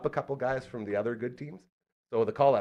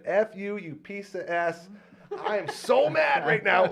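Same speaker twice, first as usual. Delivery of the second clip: high, loud, slow mock shout of rage; furious outburst; 9 semitones higher, 4 dB louder, slower than usual. A batter curses the pitcher, in a high, slow, yelled rage. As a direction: hammer it out like a hitter losing it.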